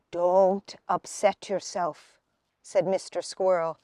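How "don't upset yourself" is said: slow, gentle reassurance; comforting. Acted. Mister Squirrel comforting Missus Acorn, slow and gentle. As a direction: soothe the worried mother. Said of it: "in a comforting voice".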